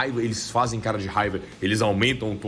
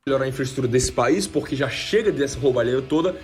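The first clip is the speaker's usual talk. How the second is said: lively speech; 3 semitones higher than usual. Shown as a demonstration. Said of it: "Ficou um pouco forçado".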